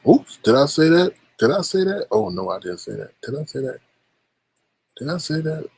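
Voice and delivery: coy fake surprise; mock innocent. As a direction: pretend you let it slip.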